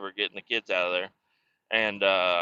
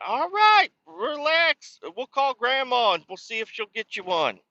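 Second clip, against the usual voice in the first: higher, lightly mock-calming voice; soothing dad; 13 semitones higher than usual. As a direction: settle a whining kid, half amused. Dad calming upset daughter.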